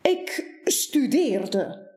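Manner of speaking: slow, lightly pompous professor. Acted. Baas proudly tells Buur what he did, slowly like a professor. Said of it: "een stem die klinkt als een volleerd professor".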